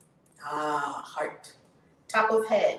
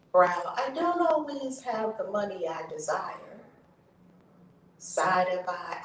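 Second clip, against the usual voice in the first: tapping affirmation lead; much slower than usual. Acted. Tapping coach leading viewers through affirmations, slow chanting lead.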